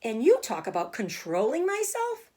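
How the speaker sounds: put-on girl yelling at her father over the pig's life; angry girl. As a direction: hurl it back at her father.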